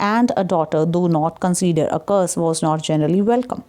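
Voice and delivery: slow, measured reading aloud in English; reading a textbook aloud. Acted. Teacher reads the story's opening to students, slow read-aloud. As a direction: read the passage slowly, phrase by phrase.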